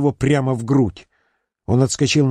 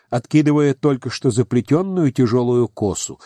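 usual speaking voice

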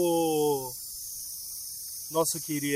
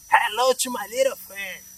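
slow Scarface gangster impression; Al Pacino; slower than usual. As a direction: drawl it out in a put-on movie gangster voice. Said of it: "Al Pacino".

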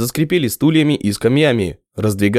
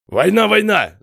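assuring; 9 semitones higher than usual. A narrator's reading. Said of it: "заверил тот".

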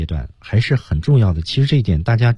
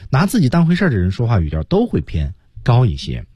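ordinary delivery

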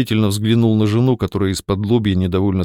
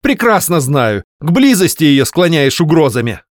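angry accusation; 7 semitones higher, 5 dB louder than usual. Acted. Wife accusing husband.

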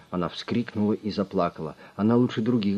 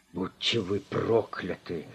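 slow, softer hissed curse; 4 dB quieter, slower than usual. A narrator's reading. Arrested boss cursing Drongo, hissing. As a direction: spit the curse through your teeth. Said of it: "прошипел".

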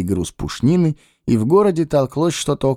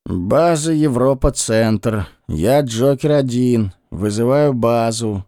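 police radio; slower than usual. Acted. Radio call to base.

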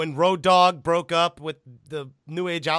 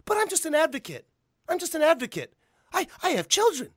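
much higher, pleading manager voice; Paul Heyman impression; 10 semitones higher than usual. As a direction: protest innocence with mock sincerity. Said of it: "and he goes".

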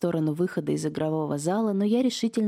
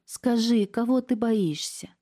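higher, slower, close to tears; tearful plea; 7 semitones higher, slower than usual. A narrator's reading. Niece near tears begging her aunt, tearful plea. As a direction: ask through rising tears. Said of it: "Настя заплакала".

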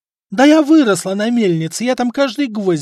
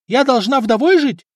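high, much louder shrill wife's yell; 10 semitones higher, 7 dB louder than usual. A narrator's reading. Wife yelling at husband and apprentices, loud. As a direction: scream at the lazy crew. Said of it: "продолжала орать жена".

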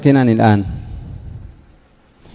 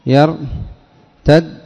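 slow demo word; 2 semitones higher, much slower than usual. Shown as a demonstration. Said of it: "بدالين".

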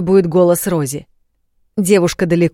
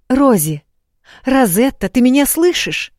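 higher, louder call into a magic bracelet; 8 semitones higher, 6 dB louder than usual. A narrator's reading. Gabriela calls Rosie over the link, loud and high. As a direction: call her friend's name over the link.

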